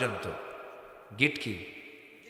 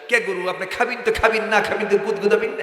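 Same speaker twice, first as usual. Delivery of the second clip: Dupchanchia dialect; 5 semitones higher, 4 dB louder than usual. Retold or imitated. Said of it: "বগুড়ার পশ্চিম আদম দেখি, দুপচাচিয়া".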